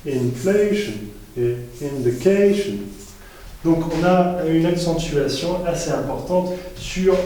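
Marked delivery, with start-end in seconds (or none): 0.1-0.9 inflation with the weight on FLA; stress on FLA. Shown as a demonstration. Teacher showing students the stress rule, stressing FLA. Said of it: "on dit". 1.8-2.7 indication with the weight on CA; stress on CA. Shown as a demonstration. Teacher showing students the stress rule, stressing CA. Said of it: "on dit".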